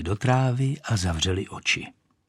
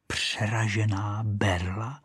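"Přeražená berla?" softer, slower, rising; repeating in disbelief; 6 dB quieter, slower than usual. Acted. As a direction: mishear and puzzle over it quietly. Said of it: "opakovala si Rachejtle".

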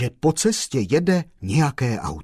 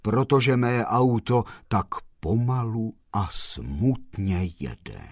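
sepulchral voice. Acted. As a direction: let the last word sink away. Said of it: "povídal hrobovým hlasem".

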